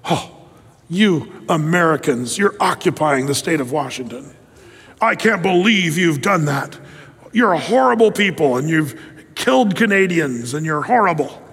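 tut-tut at Americans, mildly hammed-up; sanctimonious scolding. The world scolding the United States, mild sanctimonious mock. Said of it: "shakes their heads sanctimonious and said".

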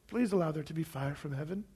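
soft, plain, unhurried prayer; simple quiet prayer. Retold or imitated. Elijah praying simply for fire from heaven, softly. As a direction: pray it simply, no show. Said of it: "He just prayed a simple prayer".

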